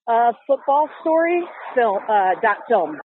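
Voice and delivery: slow and carefully spelled out; over enunciating. Shown as a demonstration. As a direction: say the website slowly and clearly. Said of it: "Can you say it one more time slowly".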